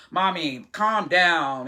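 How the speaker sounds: flat, even imitation of a young girl; mild monotone, with little rise or fall; monotone daughter. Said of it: "she talks very monotone like this".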